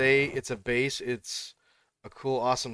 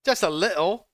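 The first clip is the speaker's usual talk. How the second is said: higher mock-British voice; British impression; 6 semitones higher, 4 dB louder than usual. Friend pleading to touch it a little, higher British impression. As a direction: playfully put on a British accent, pitched up. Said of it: "some more British impression".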